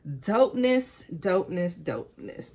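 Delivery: gushing then trailing to a murmur; excited then fading. Real, not acted. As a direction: savor the word, letting it sink away each time. Excited over new t-shirt.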